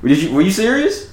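high, laughing question; fighting back laughter; trying not to laugh. Real, not acted. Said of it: "I'm trying to be serious here".

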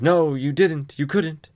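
the daughter rejecting her father's confession; voicing the daughter. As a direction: refuse to believe it.

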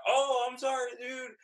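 high, sheepish sorry; sheepish apology. Retold or imitated. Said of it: "was like".

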